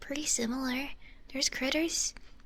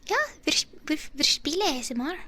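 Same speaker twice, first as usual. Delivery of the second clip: excited German; 4 semitones higher, 5 dB louder than usual. Acted.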